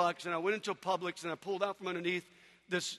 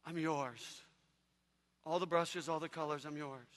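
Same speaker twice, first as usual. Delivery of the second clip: soft, hushed prayer; humble surrender; 2 semitones lower, 6 dB quieter than usual. Retold or imitated. Man kneeling in his van surrendering to God, soft and hushed. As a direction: whisper your surrender to God. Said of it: "and I said".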